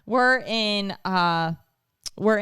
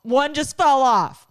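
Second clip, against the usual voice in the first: put-on excited child; 6 semitones higher, 6 dB louder, slower than usual. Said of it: "And then he's".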